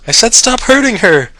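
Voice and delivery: high screaming rage; loud, terribly high. Acted. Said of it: "came his voice once more. Loud, high, terribly high".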